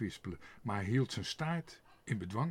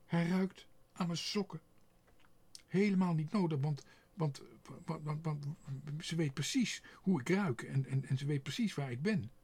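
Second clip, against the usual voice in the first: high, louder, stammering alarm; panicked; 6 semitones higher, 5 dB louder than usual. A narrator's reading. Otje realising the dog will track her, panicked. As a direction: panic building, tripping over words.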